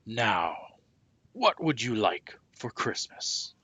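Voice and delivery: slow, kindly Santa question. A narrator's reading. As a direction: Santa leaning in to ask the child. Santa asks the boy's wish.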